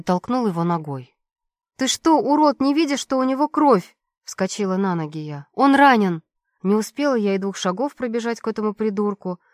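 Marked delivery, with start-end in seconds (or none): 1.8-4.0 high, loud outraged shout; furious yell. Acted. Heroine yells at guard. 5.5-6.2 high, loud desperate shout; loud cry. Acted. Heroine shouts.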